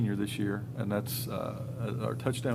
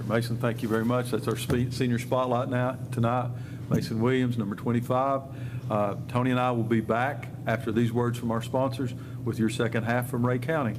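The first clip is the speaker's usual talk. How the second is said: radio announcer; 4 dB louder than usual. Real, not acted. Signs off to ad break.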